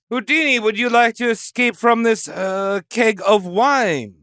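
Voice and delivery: lightly hammed-up French accent; mock French accent. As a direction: invite him with a put-on French lilt. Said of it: "I'd see a Frenchman go".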